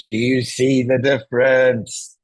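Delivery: a projected presenter voice aimed at the far end of the room; projected loud voice. Shown as a demonstration. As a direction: speak up so the back row hears every word.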